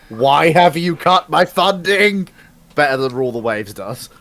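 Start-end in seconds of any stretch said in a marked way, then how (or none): 0.1-2.3 frustrated admiral. Retold or imitated. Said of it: "the frustration of an admiral going".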